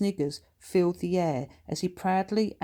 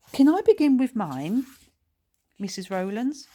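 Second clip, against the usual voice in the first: keen; 6 semitones higher, 6 dB louder than usual. A narrator's reading. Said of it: "he asked keenly".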